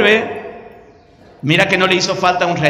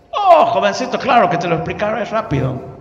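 higher, fervent preacher voice; gringo testimony; 3 semitones higher than usual. Retold or imitated. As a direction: testify with joy. Gringo explaining his faith. (gringo dando testimonio con fervor)

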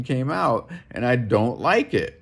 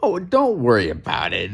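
mock soothing machine. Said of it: "stupid machine is trying to tell us".

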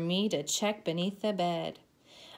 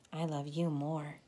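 tender reply; 4 semitones lower, 3 dB quieter than usual. Acted. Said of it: "mother's reply".

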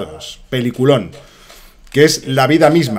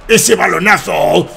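ecstatic mock commentary; 8 semitones higher, 3 dB louder, slower than usual. Mock commentary celebrating goal.

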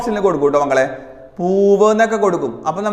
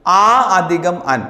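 slow dictation; much slower than usual. Shown as a demonstration. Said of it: "എങ്ങനെയാണ് അവൻ പിരിച്ചെഴുതുമ്പോ".

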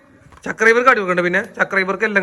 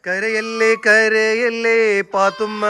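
soothing; 5 semitones higher, slower than usual. Real, not acted. Mother soothing crying child.

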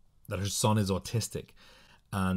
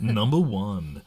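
mock announcer; 7 dB louder, slower than usual. Announcing first item.

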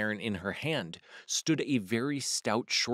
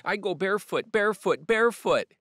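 high, rising clucking hen voice getting louder; 8 semitones higher, 8 dB louder than usual. A narrator's reading. Speckled hen clucking as she runs into the barn.

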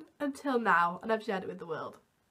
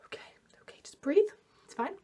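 hushed calming; 4 semitones higher than usual. Retold or imitated. Calming the crying boy.

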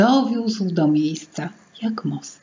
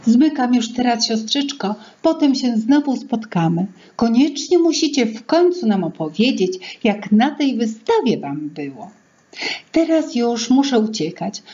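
put-on cheerful young sister; 3 semitones higher than usual. Sister says goodbye, off to work.

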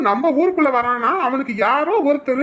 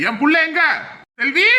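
angry demand; 3 semitones higher than usual. Acted. Father demands his child.

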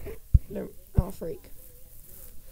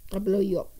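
soft unvoiced mock threat; playful villain whisper; menacing whisper; 4 dB quieter than usual.

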